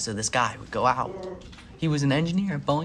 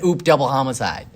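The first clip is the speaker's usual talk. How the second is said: flippant quip; 6 dB louder than usual. Retold or imitated. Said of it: "It said".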